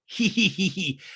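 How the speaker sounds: imitated self-pleased giggle; mock giggle. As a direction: giggle at your own joke, hammed up. Acting Rinna amused by own rhyme.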